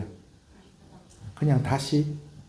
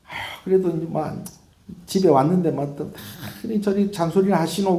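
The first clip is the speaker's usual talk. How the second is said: grumbling son; 5 semitones higher than usual. Acted. Son grumbles at nagging mother.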